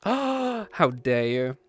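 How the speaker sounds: slow mock-offended how dare you; gasp, then drag it out in fake outrage; hammed-up offended gasp; mock offense.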